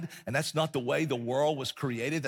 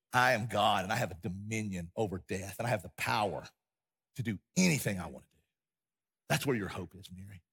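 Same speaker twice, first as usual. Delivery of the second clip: lower, measured divine declaration; solemn declaration; 5 semitones lower, 3 dB quieter, faster than usual. Acted. Jesus declaring his power to Mary, low and solemn. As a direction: drop low and state it with quiet authority.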